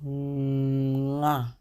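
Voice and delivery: Nga to scare people; scary nga. Shown as a demonstration. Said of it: "or scaring some people".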